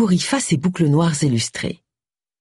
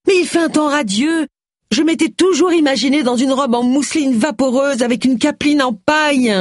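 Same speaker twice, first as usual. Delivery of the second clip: dreamy Agatha; 9 semitones higher than usual. A narrator's reading. Agatha daydreams about her dress.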